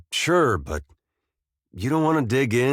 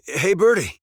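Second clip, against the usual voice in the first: higher, louder call to a bird; 9 semitones higher, 4 dB louder than usual. Acted. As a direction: call out brightly to get the bird's attention. Calls the bird a second time.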